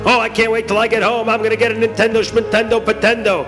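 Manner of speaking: put-on eager boyish boasting; acted schoolboy excitement; excited boy. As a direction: gush with anticipation. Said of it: "they're all excited and they begin to speak".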